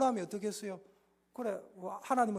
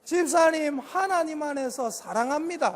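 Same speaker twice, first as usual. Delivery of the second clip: said a bit louder with the whole church; louder repeat; 3 semitones higher, 6 dB louder than usual. Shown as a demonstration. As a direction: lead the group in saying it together. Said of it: "시작".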